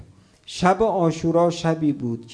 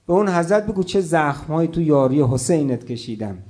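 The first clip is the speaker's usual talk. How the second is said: mournful recitation. Acted. Chants the Arabic martyr narrative.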